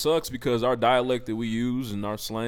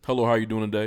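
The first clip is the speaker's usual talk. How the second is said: phone voice; 3 semitones lower, faster than usual. Shown as a demonstration. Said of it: "what's your phone".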